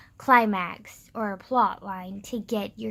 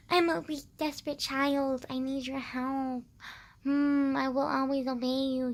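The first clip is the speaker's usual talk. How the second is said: hammed-up helpless girl; mock damsel voice; 3 semitones higher than usual. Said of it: "the girls is always like".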